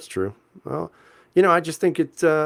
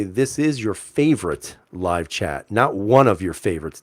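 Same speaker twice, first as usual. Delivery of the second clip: slow, pointed stress through "This is your favorite"; emphatic mock correction; slower than usual. Streamer teasingly correcting a fan's compliment, emphatic mock correction. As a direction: correct them deliberately, slowing on "your favorite live chat".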